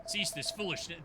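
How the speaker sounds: low, commanding rebuke repeated; stern old mentor. Acted.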